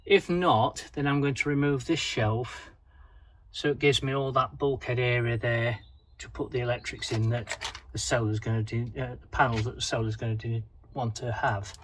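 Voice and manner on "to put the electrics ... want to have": tripping over words, restarting phrases; stuttering. Real, not acted. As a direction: stumble and repeat the words. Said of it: "I'm stuttering".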